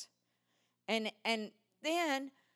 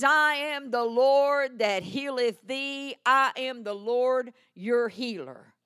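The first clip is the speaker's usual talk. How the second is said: slow, louder solemn proclamation; proclaiming God's word; 3 semitones higher, 9 dB louder, slower than usual. Retold or imitated. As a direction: declare each word slowly and loud. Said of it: "He says".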